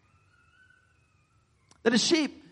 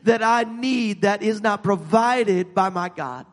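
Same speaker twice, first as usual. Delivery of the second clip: preaching at full force; 3 semitones higher than usual. Acted. Preacher declaring to the church that God provides everything, full force. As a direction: preach it to the congregation, building.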